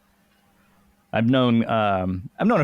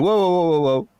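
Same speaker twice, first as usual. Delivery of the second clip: higher-pitched run of whoas, imitated; urgent intervention; 6 semitones higher, 3 dB louder than usual. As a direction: step in to stop a fight. Big cop breaks up the fight.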